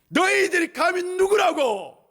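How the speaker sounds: high, loud, indignant yell; indignant shout. Acted. Jesus shouts down the storm, indignant. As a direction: demand who dares, shouting. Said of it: "이렇게 했을 수도 있어요".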